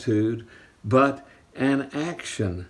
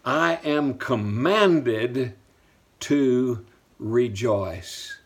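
slow dictation; much slower than usual. Shown as a demonstration. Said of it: "Write that down".

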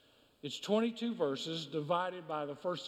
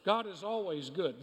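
"always" given firm weight; stress on always. Real, not acted. Preacher repeating his point to the congregation, stress on "always". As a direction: put the emphasis on "always". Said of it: "notice the emphasis on the word always".

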